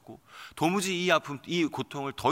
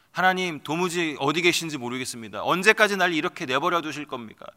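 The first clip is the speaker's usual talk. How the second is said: higher and louder, pleading with God; raised, anguished plea; desperate outcry; 4 semitones higher, 5 dB louder than usual. Acted. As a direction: cry out as someone near death. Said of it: "이 절규의 고백".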